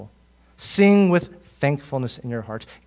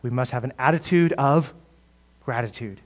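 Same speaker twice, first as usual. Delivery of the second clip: cheesy slogan; 3 semitones lower than usual. Retold or imitated. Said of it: "You know the cheesy line".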